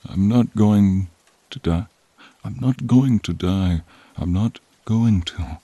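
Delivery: frightened insistence, voice lifted; desperate denial. Acted. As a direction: fight against dying out loud. Creature refuses to die.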